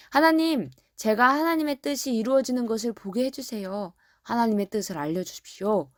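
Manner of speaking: lightly acted pleading prayer; earnest prayer. Simeon begging God to show him His will, earnest prayer. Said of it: "이렇게 간절히 기도하는 시므온".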